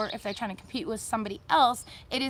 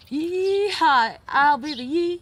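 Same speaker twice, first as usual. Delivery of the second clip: cowboy call; 4 semitones higher, 6 dB louder, slower than usual. Pretend. Cowboy bar yee-haw call.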